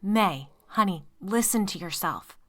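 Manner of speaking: slow, calm pleading; husband calming his panicking wife, slow and steady. Acted. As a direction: soothe her slowly and evenly. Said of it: "pleaded in that same steady voice".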